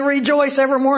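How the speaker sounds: put-on high, giddy retelling of a chuckling old man; lightly acted giggly delight; mock laughing old man. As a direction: say it as if laughing to yourself. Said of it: "he's laughing so hard".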